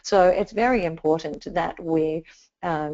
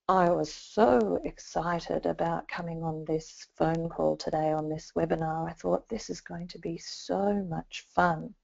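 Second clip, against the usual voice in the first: flat, unexcited tone; 6 dB quieter than usual. Shown as a demonstration. Trainer demonstrating a tone that betrays real feelings, flat and quiet. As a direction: say excited words with a bored, deflated tone. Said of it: "didn't really sound like I was very excited".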